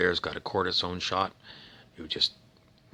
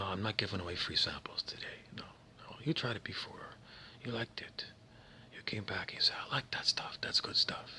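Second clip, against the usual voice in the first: hushed, whispered street dealer pitch; shady dealer; 4 dB quieter than usual. Acted. Street dealer pushing drugs.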